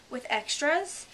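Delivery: high, loud anxious question; a little anxious. Acted. The Mock Turtle questioning Alice's schooling, slightly anxious. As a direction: ask with a touch of worry. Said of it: "a little anxiously".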